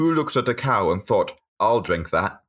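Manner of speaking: dead straight, serious delivery, low pitch. Quoting a favorite line he said straight to the camera, imitating Jon Tickle's deadpan.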